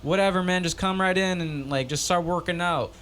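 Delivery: high lazy mock gym voice; laid-back gym guy. Gym guy inviting him in, laid-back. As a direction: wave him in, totally unbothered.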